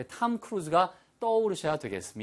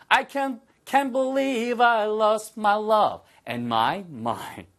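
much higher, slow, stunned line; stunned disbelief; 7 semitones higher, 3 dB louder, much slower than usual. Shown as a demonstration. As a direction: sound shaken by what you lost. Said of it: "연결해서 한번 해보시고요". (높고 느리게 충격받은 말투)

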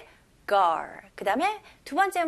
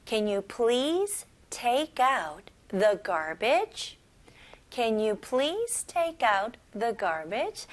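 slow repeat; 2 semitones lower, much slower than usual. Shown as a demonstration.

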